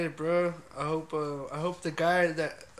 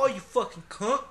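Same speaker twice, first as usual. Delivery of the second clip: higher, louder British insult; mock British accent; 7 semitones higher, 7 dB louder than usual. Shown as a demonstration. Host rehearsing for British friends, loud mock British accent. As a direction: swear in a hammed-up British accent. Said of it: "my best British accent".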